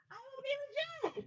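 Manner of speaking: high, steady affirmation lead; call and response. Acted. Mother leading her son's affirmations, high call-and-response. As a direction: lead the line high for him to repeat.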